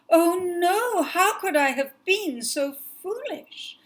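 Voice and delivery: high, loud cry of dismay, slowing on the question; the panicked prince who forgot his task. Acted. Prince to the white cat, suddenly remembering, in loud dismay.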